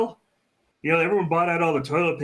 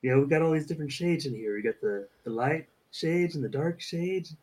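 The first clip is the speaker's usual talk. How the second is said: depressed painting instructor. Acted. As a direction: sigh through it like a sad painter. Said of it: "make it sound like he's horribly depressed".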